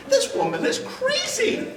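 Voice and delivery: high, slow laughing disbelief; inner thought. Retold or imitated. Husband's astonished thought about his shouting wife, laughing. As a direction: laugh it out in amazement. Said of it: "I was just".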